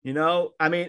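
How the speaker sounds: put-on soft, gentle reassurance to an upset boy; softly reassuring a crying teenager in the truck; soothing a scared kid. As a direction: talk him down quietly and kindly. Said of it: "kinda talking to him like".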